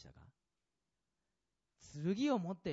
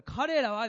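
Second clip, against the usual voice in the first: 彼らは said high and loud, hit hard; emphasis on 彼らは; 8 semitones higher, 11 dB louder, much slower than usual. Shown as a demonstration. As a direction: punch 彼らは like the key word. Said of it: "ですからね".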